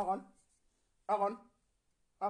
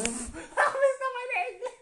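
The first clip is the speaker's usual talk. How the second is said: high mock voice; 7 dB louder, slower than usual.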